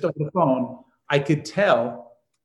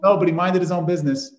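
lightly voiced dad, a bit higher; dad's dry comeback to the neighbor; punchline retort; 4 semitones higher, 4 dB louder than usual. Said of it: "He goes".

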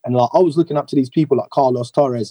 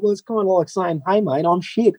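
put-on Australian accent, mild. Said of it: "he's Australian, isn't he?".

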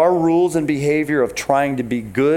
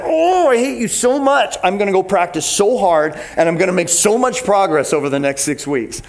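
mock teenage fury; 4 semitones higher than usual. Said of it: "I'm like".

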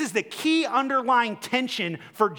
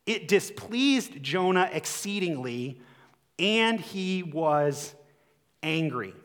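slow scripture reading; 2 semitones lower, slower than usual. Shown as a demonstration. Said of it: "scripture read slowly".

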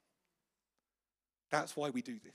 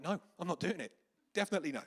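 acted-out refusal, higher and louder; firm refusal; 6 semitones higher, 5 dB louder, faster than usual. Missionary refusing God's nudge in the queue, firmly. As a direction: dig in your heels, mock-stubborn.

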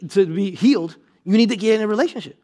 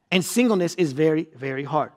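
softer repeat; 5 semitones lower, 5 dB quieter than usual. Shown as a demonstration. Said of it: "repeated phrase, softer second take".

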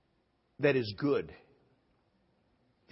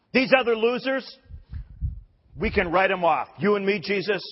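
tag; 7 semitones higher, 6 dB louder than usual. Acted. Peter dismisses other disciples, acted.

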